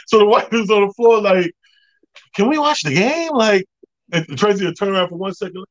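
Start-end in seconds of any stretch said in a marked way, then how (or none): 2.4-3.3 mock complaint. White fan complaining, mimicked.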